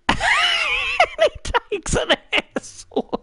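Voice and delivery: high laughing shout cracking into giggles; laughing squeal. Real, not acted. Streamer watching the replay, shrieking with laughter.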